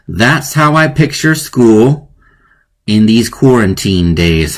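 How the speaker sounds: slow, pondering read of the line; rereading the last line slowly. Shown as a demonstration. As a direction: mull over each word. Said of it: "get a little creative".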